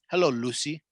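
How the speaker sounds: put-on light Greek accent on Lucy. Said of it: "you're doing it with the Greek accent".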